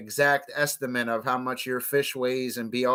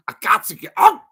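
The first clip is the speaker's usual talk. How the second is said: laughing; 8 semitones higher, 7 dB louder than usual. Real, not acted. Laughing yelp.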